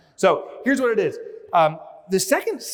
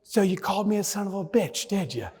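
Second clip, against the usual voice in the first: sassy turtle comeback. Pretend. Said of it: "the turtle says".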